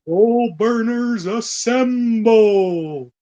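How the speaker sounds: rallying call. Pretend.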